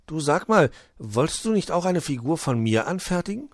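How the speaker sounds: high storybook elf voice; wheedling little elf. Acted. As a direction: ask coaxingly in a high voice. Luzi asks Puh.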